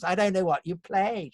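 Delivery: high, put-on theatrical exasperation; casting director. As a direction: imitate a baffled casting director. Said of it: "a casting director saying to me".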